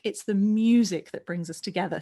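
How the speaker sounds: "music" leaned on and stretched, landing firmly; milk the word "music"; stress on music. Shown as a demonstration. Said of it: "really milk that word".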